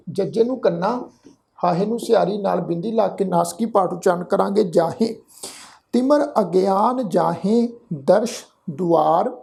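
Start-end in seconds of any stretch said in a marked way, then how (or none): 5.9-9.3 slow, measured chanting of the verse; scripture recitation. Shown as a demonstration. Teacher reciting the verse for the congregation, slow and measured. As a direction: lay each word out slowly and reverently.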